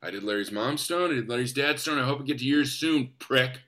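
low, soft mock menace; scary threat. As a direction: threaten quietly, dropping the voice. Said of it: "threatened him in a scary way".

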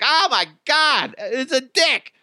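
high, slow delighted laugh-talk; gleeful amazement, drawn out. Retold or imitated. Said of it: "my wife and I are like".

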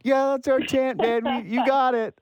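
high, eager agreeing fan; polite fan voice. Retold or imitated. Mocking polite fans agreeing.

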